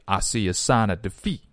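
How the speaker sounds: "I see a sign of defeat" in a demonstrated African American accent; African American English accent. Shown as a demonstration. Teacher showing learners how Black speakers would say it, African American accent. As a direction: imitate African American pronunciation, vowels loosened toward "ah". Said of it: "如果按照黑人的发音方式".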